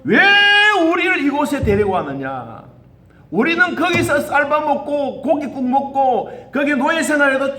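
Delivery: whiny grumbling, half-laughing at them; mock complaining to the leader, half laughing; mock whining complaint. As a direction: play the griping people, half amused. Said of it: "어떻게 원망합니까?".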